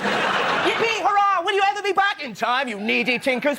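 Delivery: hammed-up shrieking gratitude; mock grateful orphans. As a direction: cheer like a giddy storybook waif. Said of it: "wants to go".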